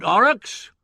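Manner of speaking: loud, high summons; impatient bellow. A narrator's reading. Boss calling through the door for secretary, impatient bellow. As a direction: bellow for your underling. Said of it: "an impatient voice bellowed".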